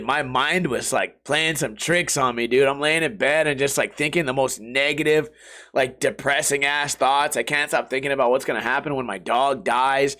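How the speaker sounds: usual speaking voice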